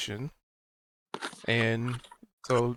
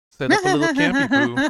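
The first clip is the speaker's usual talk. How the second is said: laughing; 14 semitones higher, 7 dB louder than usual. Real, not acted. Cute word, laughing.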